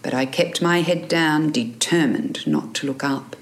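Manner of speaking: measured audiobook reading with lifted character lines; story narration. A narrator's reading. Author reading her novel to listeners, story narration. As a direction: read the excerpt as a storyteller.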